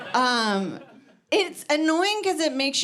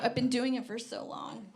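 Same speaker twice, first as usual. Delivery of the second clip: much softer, hushed and nervous; soft worried aside to herself; paranoid hush; 2 semitones higher, 8 dB quieter than usual. Retold or imitated. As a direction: murmur it like you fear being watched. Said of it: "And then I'm like".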